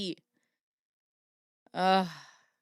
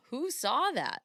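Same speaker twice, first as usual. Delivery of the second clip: layered demon voice; demonic layered voice; 6 semitones higher than usual. Acted. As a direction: ask it like a hollow demon. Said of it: "If it weren't for the demon voice".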